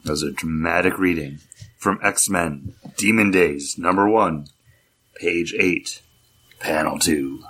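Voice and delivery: measured, portentous presenter intro; mock-solemn announcer; dramatic reading announcement. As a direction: announce it slowly and formally, pausing between phrases.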